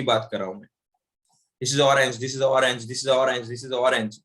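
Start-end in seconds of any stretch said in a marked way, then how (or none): 1.6-4.2 run together. Shown as a demonstration. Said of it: "आपको पता चला अ बोला या नहीं बोला".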